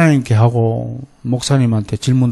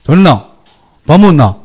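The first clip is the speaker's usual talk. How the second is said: loud, blunt Gyeongsang questions; Gyeongsang dialect; 2 semitones higher, 8 dB louder than usual. Shown as a demonstration. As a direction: demonstrate brusque Gyeongsang-style greetings. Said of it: "이게 이제 경상도 타입이거든". (퉁명스러운 경상도 말투)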